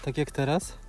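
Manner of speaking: normal talking voice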